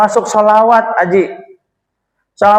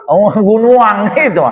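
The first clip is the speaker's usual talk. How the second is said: put-on Minang accent; 2 semitones higher, slower than usual. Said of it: "bahasa Padang mana bahasa Padang?".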